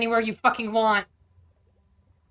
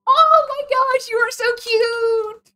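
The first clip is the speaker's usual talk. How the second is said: high, drawn-out slow adoring coo; slow gushing coo; 8 dB louder, much slower than usual. Real, not acted. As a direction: stretch every word, melting over it. Repeats gush, drawn out.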